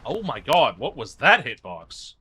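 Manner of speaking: loud frustrated outburst; raging gamer. Real, not acted. Gamer hit by unfair attack.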